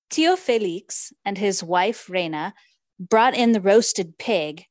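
lightly read-aloud narration with Spanish food names; story reading. Acted. Host reads the novel to her co-host, gentle narration. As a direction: read the feast passage to the listener.

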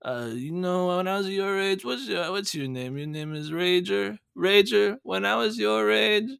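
lightly voiced old grandpa telling kids; a hint of a grandpa gathering the kids; old storyteller voice. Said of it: "come on here, gather around, kids".

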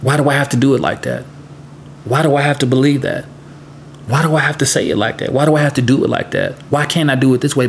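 rapid run of mock challenges; questioning. Voicing free thinkers who want to know why, questioning. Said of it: "they wanna know why".

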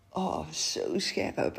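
slow, strained from a spicy drink; reacting to sharp ginger; burning mouth. Real, not acted.

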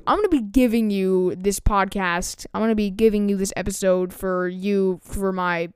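hammed-up imitation of his own awkward younger self; mocking his younger self. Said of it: "It was like".

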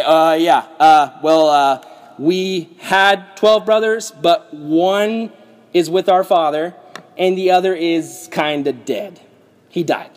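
halting, reluctant admission with pauses; stall, then mildly own up bit by bit; awkward hesitation. Acted. Brothers explain the missing two to Joseph, awkwardly hesitant.

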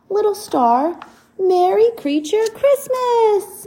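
friendly bear greeting. Acted. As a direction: boom out a jolly greeting. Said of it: "he says, to their surprise".

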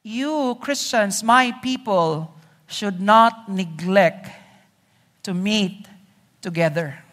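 slow, measured, lightly voiced admonition; voice of scripture. The Bible addressing its Christians, lightly voiced admonition. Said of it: "It's like the Bible is saying".

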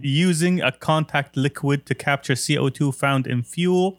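rushing the title without breathing; cramming it into one breath; all in one breath. Real, not acted. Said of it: "Why'd you inhale?".

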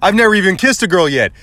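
retold earnest plea; begging. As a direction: plead your innocence, mock-desperate. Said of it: "begging, like".

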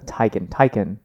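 "Taycan" with a first syllable like tie; Tai-kun pronunciation. Shown as a demonstration. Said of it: "you're gonna make me pronounce".

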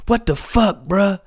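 high, amused mock complaint; a rapper. Host imitating the rapper in Iceland water, mock complaint. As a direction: yelp it indignantly, close to laughing. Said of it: "He's like, he's like".

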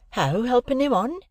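a hint of a level-headed village girl; Biddy. A narrator's reading. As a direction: ask it as steady, sensible Biddy. Biddy voiced in read novel.

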